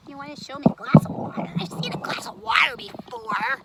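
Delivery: unvoiced scoffing whisper, fast; sarcastic whisper. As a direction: sneer it under your breath. Puppet mocking in whisper.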